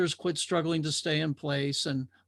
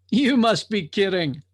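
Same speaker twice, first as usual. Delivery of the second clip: disbelieving drifter; 3 semitones higher, 6 dB louder than usual. Acted. Drifter doubts the watcher.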